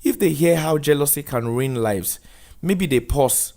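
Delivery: measured counsellor setting the rules; social worker voice. Acted. Missus Dube briefing Daniel before his talk, lightly voiced firm counsellor.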